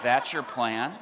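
mock disbelief, rising at the end; incredulous question. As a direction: question the plan in comic disbelief. Retold reaction to absurd plan.

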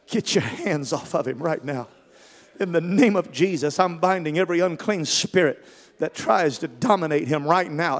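loud, forceful rebuke of a spirit; commanding deliverance prayer. Retold or imitated. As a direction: build into a full-force preacher's command. Retold prayer casting out spirit.

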